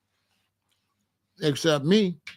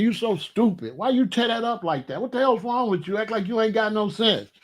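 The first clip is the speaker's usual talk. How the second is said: higher-pitched mock scolding; retold cussing out; 5 semitones higher than usual. Owner retelling cussing out his dog, mock scolding. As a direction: rattle off a mild mock telling-off. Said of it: "I be cussing him out".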